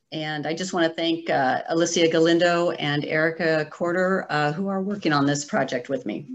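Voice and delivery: hoarse, voice giving out; strained hoarse voice; losing voice. Real, not acted. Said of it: "I'm losing my voice".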